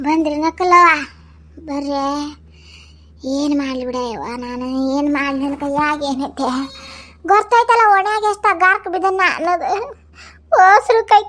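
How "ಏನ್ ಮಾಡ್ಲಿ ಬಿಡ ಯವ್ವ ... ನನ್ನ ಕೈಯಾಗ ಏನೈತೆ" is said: softer, resigned lament; helpless sigh. Acted. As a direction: give up in quiet despair. Helpless mother. (ಅಸಹಾಯಕತೆಯಿಂದ ಮೆಲ್ಲಗೆ)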